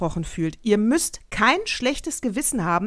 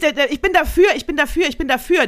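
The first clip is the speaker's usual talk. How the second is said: louder, higher, pressing the point hard; raised voice, firmly agreeing in the middle of a heated debate; heated insistence; 6 semitones higher, 5 dB louder than usual. Real, not acted. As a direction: cut in forcefully and insist.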